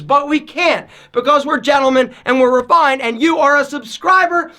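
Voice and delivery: winded after the rant; puffing, short of air; out of breath. Real, not acted. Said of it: "I'm out of breath".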